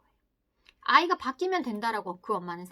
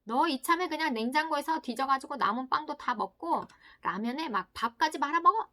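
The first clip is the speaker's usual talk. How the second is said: sarcastic punishing voice; 4 semitones higher, 4 dB louder than usual. Acted. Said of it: "하고 벌을 내리는 거예요".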